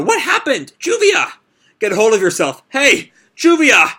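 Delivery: put-on Gray begging the fallen girl to wake up; frantic crying shout. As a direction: scream at her to wake up. Gray shouts as Juvia collapses.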